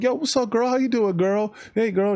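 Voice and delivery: high, eager mock flirting voice; cheesy pickup guy.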